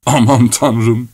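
slow, understated despair; despairing cry. Acted. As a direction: exclaim slowly with mild hopelessness. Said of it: "diye bağırdı Korotkov umutsuzca". (umutsuzca, ağır ağır)

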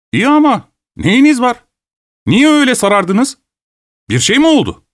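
high-pitched worried questioning; alarmed concern. A narrator's reading. Guest seeing the host turn pale, alarmed concern. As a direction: ask in startled concern, pitch leaping up.

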